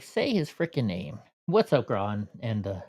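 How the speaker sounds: out of breath. Real, not acted. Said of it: "sorry, I was out of breath".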